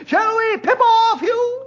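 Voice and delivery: a put-on British gent, boisterous; mock British accent. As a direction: play the toff, tally-ho and all. Old-timer mimics British friend.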